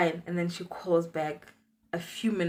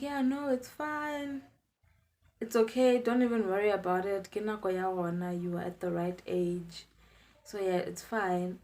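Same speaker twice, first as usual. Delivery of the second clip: a hint of an unbothered, gentle mother; calm mom; 5 dB quieter than usual. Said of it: "my mom is so calm".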